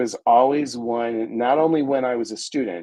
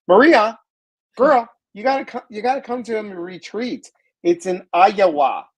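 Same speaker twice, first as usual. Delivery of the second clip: excited call-out; 9 semitones higher, 5 dB louder than usual. Real, not acted. Host calling Maria to the retreat, high and excited. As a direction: call her over with big enthusiasm.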